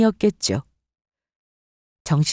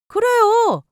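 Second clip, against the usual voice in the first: sarcastic agreement; 13 semitones higher, much slower than usual. Acted.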